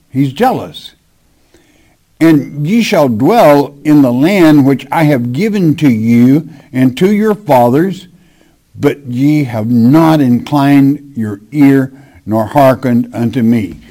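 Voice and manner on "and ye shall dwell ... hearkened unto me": measured, solemn Bible reading; scripture reading. Acted. Preacher reads Jeremiah to his congregation, solemn scripture reading. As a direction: read the verse out to the congregation.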